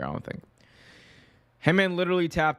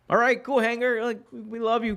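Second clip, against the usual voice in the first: mock placating; 12 semitones higher than usual. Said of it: "the E V Ps are like".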